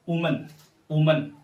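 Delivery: "वुमन" as "oo-mun"; short "वुमन" starting on oo; singular pronunciation. Shown as a demonstration. Teacher modelling the singular, "वुमन" as "oo-mun". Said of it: "इसे हम पढ़ते हैं".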